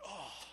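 drawn-out, falling "ohh"; reluctant groan. Retold or imitated. Groaning at God's further order.

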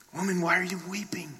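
soft, quick, slightly lifted question; gentle questioning. Acted. Unrecognised man to Mary weeping, gentle question. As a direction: ask tenderly, without pressing.

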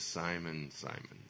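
low, hushed name-calling; grave address. Acted. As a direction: drop right down, soft and low. Jesus gravely answers Peter's boast.

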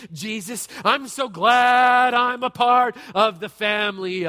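mock-grateful sarcasm building to a loud high rant; sarcastic prayer rising to a loud, high complaint. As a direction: thank Jesus through your teeth, then blow up. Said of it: "I get sarcastic".

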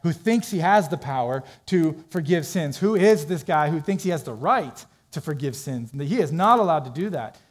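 mildly indignant, punching key words; emphatic mock indignation; upset religious leaders. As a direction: act out offended objection. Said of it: "gets the religious leaders pretty upset".

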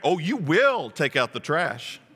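slow, leaning on will; a hint of a firm parent. Parent ordering a child to take out the trash, lightly firm. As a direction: stress will like a parent laying down the law. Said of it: "have you ever said this as a parent".

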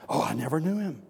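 offhand denial at normal volume; casual, unforced disowning; dismissive denial. Acted. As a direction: brush the question off lightly. Peter's first denial, voiced offhand.

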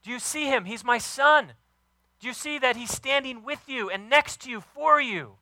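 high, loud, excited father's cry; God's proud voice. Retold or imitated. God announces his son to everyone listening, high and excited. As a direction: proclaim it like a bursting-proud father. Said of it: "He wants his son ... to know".

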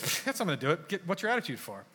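a scoffing, can't-be-bothered reply; dismissive scoff. Retold or imitated. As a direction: brush it off with a pfft. Same dismissive retort repeated.

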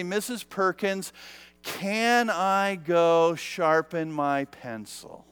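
soft, slow innocent question; mildly innocent classroom request, slowing down. Retold or imitated. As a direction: imitate a schoolkid asking innocently, taking your time. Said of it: "innocently, I raise my hand".

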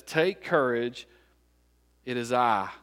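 slow, spaced-out words; deliberate quoted reassurance. Acted. Preacher quoting Jesus to the frightened, deliberate reassurance. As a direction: let each phrase land slowly. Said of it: "He says".

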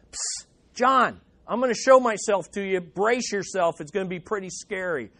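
lightly voiced hushed aside; a playful psst, like sharing a secret; mock casual Jesus. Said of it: "Jesus could have said".

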